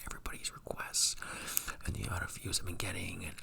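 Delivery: soft ASMR whisper; breathy whisper to the mic. Real, not acted. Whispers all through.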